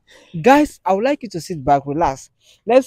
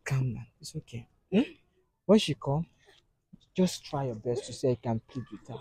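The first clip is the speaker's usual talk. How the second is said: very soft, low reassurance; calm someone crying with a hushed voice; low, quiet coaxing; gentle soothing; 5 semitones lower, 13 dB quieter than usual. Real, not acted. Quietly consoling the crying woman.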